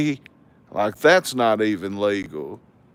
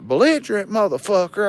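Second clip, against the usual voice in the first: high-pitched mock outrage; incredulous challenge; 9 semitones higher, faster than usual. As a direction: throw the word back in disbelief. Throws neighbor's word back in quarrel.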